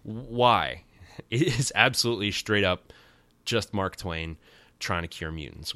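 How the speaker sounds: normal talking voice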